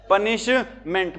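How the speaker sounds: पनिशमेंट said as "punishment", with a short neutral uh in the first syllable; correct pronunciation. Shown as a demonstration. Teacher giving the class the right pronunciation, puh-nishment. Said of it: "क्या होती है".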